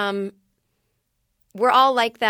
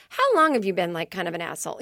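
jokey insult. Retold or imitated. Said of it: "change the tone in my voice".

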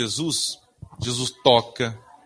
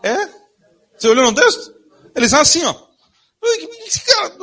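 loud, high animated outburst; preacher acting out Lazarus hopping out bound; excited exclaim; 10 semitones higher, 6 dB louder than usual. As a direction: burst out in amused disbelief.

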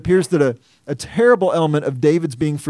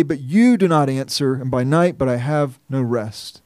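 pained, weighty reading. Acted. Preacher pressing listeners to feel David's pain, weighty lament. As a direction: let the weight of each phrase land, then fade down into "no rest". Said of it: "I want you to feel the pain of those words".

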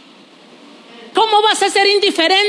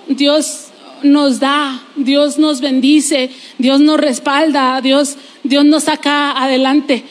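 very slow, each nos weighed out; slow preaching proclamation; 3 semitones lower, slower than usual. Acted. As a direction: proclaim it line by line, slowly.

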